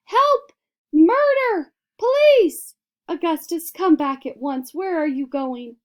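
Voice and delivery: very high, very loud hysterical cries; frantic screaming. A narrator's reading. Mother watching her son sucked up the pipe, hysterical. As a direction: shriek as if the world is ending.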